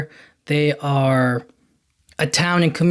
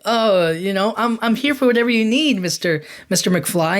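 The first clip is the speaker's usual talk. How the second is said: a light, higher, eager-to-please wimpy voice; wimpy Biff; 4 semitones higher than usual. Retold or imitated. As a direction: fawn over Mister McFly like a timid servant. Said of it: "he's this kind of wuss almost".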